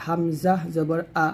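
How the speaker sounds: slow, spelled-out letter drill of হামজা জবর আ; teacher's slow drill of হামজা জবর আ. Shown as a demonstration. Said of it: "তো এগুলো হলো হারকাত".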